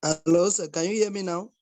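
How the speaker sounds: raising the voice on a weak line; speaking up. Real, not acted. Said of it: "your voice is very low. I can't hear you properly".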